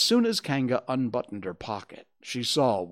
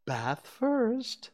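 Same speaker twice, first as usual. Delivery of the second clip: higher, cheery motherly voice; cheerful; 13 semitones higher than usual. A narrator's reading. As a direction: announce it brightly to a child. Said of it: "said Kanga in a cheerful voice".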